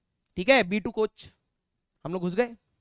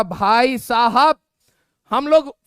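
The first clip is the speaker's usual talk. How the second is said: exasperated; 6 dB louder, much slower than usual. Retold or imitated. Exasperated at friend's ticket mistake.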